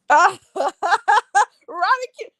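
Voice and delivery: excited call. Real, not acted. Calling out to viewer.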